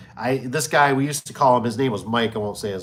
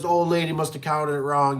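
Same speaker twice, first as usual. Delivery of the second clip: higher-pitched mock customer voice; imitated excuse-making; 4 semitones higher than usual. Customer blaming his old lady for shortfall, imitated excuse. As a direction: offer a lame excuse, pitched up.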